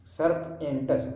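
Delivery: serpentus very slowly, "serp... en-tus"; broken into parts. Shown as a demonstration. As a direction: break serpentus apart with a clear gap after "serp". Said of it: "तोड़ तोड़ के पढ़ें".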